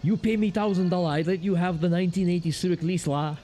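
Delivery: hammed-up Asian shopkeeper accent. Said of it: "I can't do a good Asian accent".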